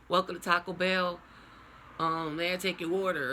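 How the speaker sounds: hammed-up Southern order-taker; down south accent. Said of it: "I'm gonna try to say".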